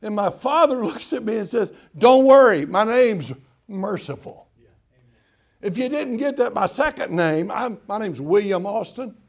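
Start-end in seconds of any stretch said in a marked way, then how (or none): 2.0-4.5 emphatic reassurance. Acted. Father reassuring him loudly.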